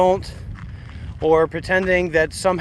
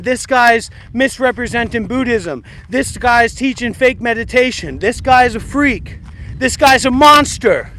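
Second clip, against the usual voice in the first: rising indignant mimicry, getting louder; mock accuser; 5 semitones higher, 5 dB louder than usual. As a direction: ham up a tattling complainer building steam. Mocking a complainer's call.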